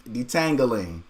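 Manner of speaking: "Detangling" echoed with the ending rhyming with jangling; imitated pronunciation. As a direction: copy her "Detangling" with a ringing -angling. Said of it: "Like jangling".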